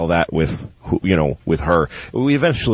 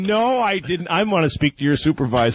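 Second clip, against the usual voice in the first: higher, half-laughing indignation; mock indignant protest; 5 semitones higher than usual. Husband to cable operator, higher mock-outraged protest. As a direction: play the outraged customer demanding a boss. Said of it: "And I'm going".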